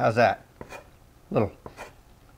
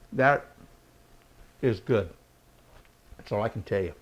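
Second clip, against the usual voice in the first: mouth full; 3 semitones lower than usual. Real, not acted. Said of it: "Pardon me for talking and eating".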